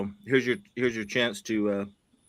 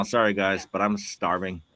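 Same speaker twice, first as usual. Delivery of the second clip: wolfing down food; 5 semitones lower, 4 dB quieter than usual. Real, not acted. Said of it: "I'm sitting here eating a steak right now".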